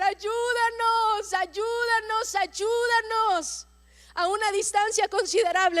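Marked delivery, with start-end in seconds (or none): 0.0-3.7 slow, higher, pleading cry for help; weeping plea. Acted. Preacher voicing the boy weeping to God, slow plea. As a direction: drag each word out like a weeping boy. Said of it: "empezó a llorar".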